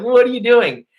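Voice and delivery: mock laughing taunt. Repeating it to the man pinned beneath him, high mocking taunt. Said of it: "I was, like, laughing at him".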